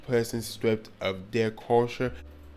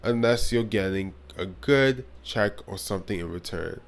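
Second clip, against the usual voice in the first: dry sarcastic advice. Real, not acted. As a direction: say it with a sarcastic edge. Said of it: "I'm being sarcastic".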